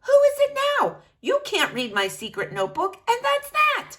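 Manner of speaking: high, loud huff; exasperated Frank. A narrator's reading. Frank annoyed at someone reading his notebook, high and loud. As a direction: demand who it is. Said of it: "he shouts".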